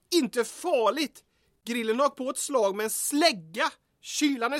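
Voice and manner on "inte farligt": incredulous echo. Acted. Echoing partner's dismissal.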